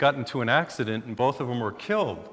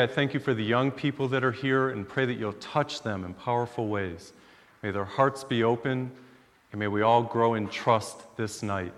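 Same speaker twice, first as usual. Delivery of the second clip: prayer. Acted. Opening prayer before service.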